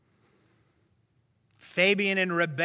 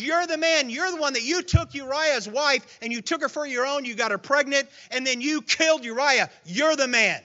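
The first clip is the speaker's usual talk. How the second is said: accusation; 4 semitones higher, 3 dB louder than usual. Retold or imitated. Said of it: "he says".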